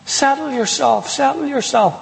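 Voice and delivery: gently hushing, lightly acted; soothing hush. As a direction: try to settle an upset mother. Son calming his shouting mother.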